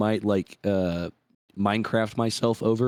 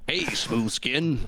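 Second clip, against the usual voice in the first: ghoul voice; much slower than usual. Pretend. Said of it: "I sound like a ghoul in Fallout".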